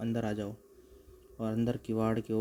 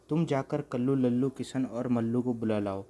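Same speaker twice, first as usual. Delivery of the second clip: urgent call; 5 dB louder than usual. Acted. Bhagwati loudly orders Lalu to fetch the villagers, urgent. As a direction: hurry him out with a loud urgent order.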